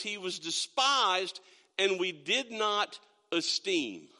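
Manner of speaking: slow, measured Bible reading with weight on each phrase; scripture reading. Acted. Pastor reading Isaiah to the church, slow and solemn. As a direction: read the verse slowly to the congregation.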